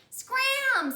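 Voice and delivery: high, loud snapped word; bossy kid's loud scram. Acted. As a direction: bark it like a bossy kid. Jason chasing Ron away.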